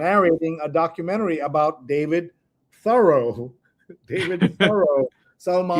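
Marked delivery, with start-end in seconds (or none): 2.8-5.1 THOREAU as THUR-oh, set apart; corrected pronunciation. Shown as a demonstration. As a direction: stress the first syllable of Thoreau, amused. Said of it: "is how you pronounce it".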